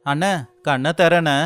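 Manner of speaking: urgent plea. Acted. Finds brother tied to tree.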